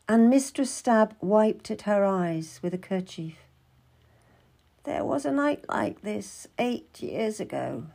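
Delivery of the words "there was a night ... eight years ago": soft, subdued recollection; lightly voiced wistful midwife. Midwife wipes her eyes recalling eight years ago, subdued. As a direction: recall an old night quietly, with a touch of sorrow. Story figure remembers, tearful scene.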